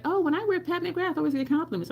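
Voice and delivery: high-pitched mock bragging; mimicking others. Acted quote of others.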